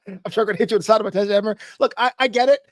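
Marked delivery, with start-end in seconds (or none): 0.1-1.6 quick, lightly put-on workman's threat; joking sledgehammer-guy voice, fast; mock sledgehammer voice. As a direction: rattle off a mock threat as a hammer-toting workman. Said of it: "is that your sledgehammer voice".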